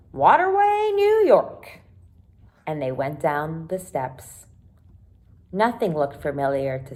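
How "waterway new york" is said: high, loud call of the stop name; driver calling out. Acted. Bus driver announces the stop, loud calling out. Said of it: "the driver called out".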